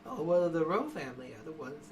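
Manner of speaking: put-on old lady voice; lightly voiced elderly woman. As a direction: answer like a helpful little granny. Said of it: "this old woman just knitting".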